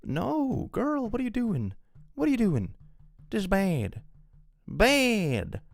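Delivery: very high, incredulous cry; sky-high, stunned "what are you doing"; exasperated disbelief. Real, not acted. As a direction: shriek at her in disbelief. Exasperated reaction to story.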